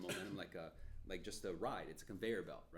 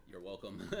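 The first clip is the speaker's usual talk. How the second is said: laughing. Retold or imitated. Smug reply while laughing.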